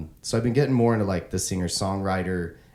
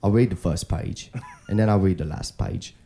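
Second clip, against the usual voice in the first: Michael Caine impression; 4 dB louder than usual. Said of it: "I can't do Michael Caine".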